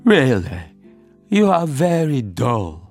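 slow, cross turtle put-down; angry. Acted. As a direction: draw out the irritated rebuke. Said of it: "said the Mock Turtle angrily".

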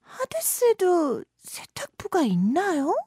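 breathy whispered naive question; whispered, childlike curiosity; innocent question. Acted. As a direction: ask it wide-eyed and hushed. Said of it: "순진하게 질문을 던졌다".

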